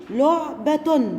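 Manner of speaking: لعبة drawn out slowly; slow syllable reading. Shown as a demonstration. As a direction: read لعبة slowly for children. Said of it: "تعالوا نشوف ده في كلمات".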